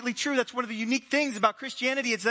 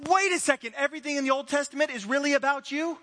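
amazed disciples; 5 semitones higher than usual. Acted. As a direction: act out the double take. Disciples realize Jesus' meaning.

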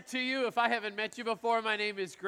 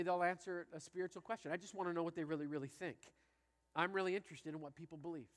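soft sincere confession; 3 semitones lower, 6 dB quieter than usual. Retold or imitated. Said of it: "I said".

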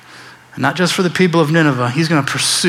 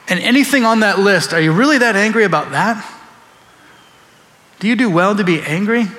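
God's gentle question; 4 semitones higher than usual. Acted. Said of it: "looks at Jonah and says".

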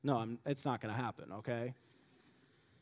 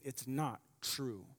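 quiet retold weeping; 7 dB quieter, slower than usual. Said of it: "crying, weeping, angry".

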